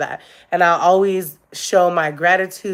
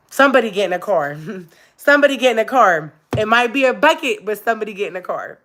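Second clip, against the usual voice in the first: laughing through the words, quick and teasing; playful laughing repeats; 4 semitones higher, 4 dB louder, faster than usual. Real, not acted. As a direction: giggle it out as a joke. Laughing joke about blowing up.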